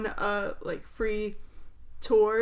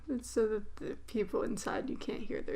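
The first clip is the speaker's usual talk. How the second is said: spooky whisper; 6 dB quieter than usual. Pretend. Spooky joke about soundproofed room.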